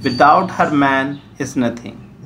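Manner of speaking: slow, "without her man" kept as one phrase; "without her man is nothing" as a separate, measured phrase; pause before "without". Shown as a demonstration. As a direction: set it apart, running "her man" together. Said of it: "तो ये तो बात इस तरह होगी".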